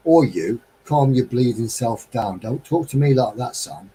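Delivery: lightly imitated Cockney telling-off, a bit forceful; hint of a London Cockney putting a lad straight; John. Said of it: "He was a Cockney".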